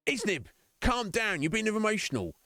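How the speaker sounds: imitated reproach. Acted friend telling streamer to calm down.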